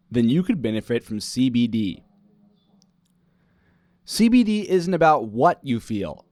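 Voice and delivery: punchy practice commercial delivery; emphatic announcer pitch with punched key words; sponsor ad read. Shown as a demonstration. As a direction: sell it like a podcast sponsor spot. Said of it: "Practice sponsor ad read".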